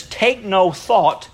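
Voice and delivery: very slow, weighty reading; solemn King James phrase read slowly; slow scripture quote. Acted. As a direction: lay each word down deliberately. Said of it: "I think it says".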